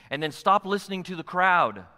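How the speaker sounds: "stop" hit loud and high; loud exhortation. Shown as a demonstration. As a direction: call the church to stop. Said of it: "repeated for emphasis".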